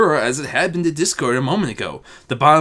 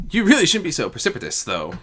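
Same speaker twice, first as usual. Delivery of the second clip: chiding; 4 semitones higher, faster than usual. Acted. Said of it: "Nocturnal chided".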